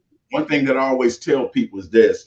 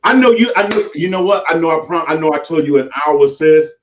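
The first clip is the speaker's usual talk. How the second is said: street; 3 dB louder than usual. Shown as a demonstration. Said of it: "flip the script and be street".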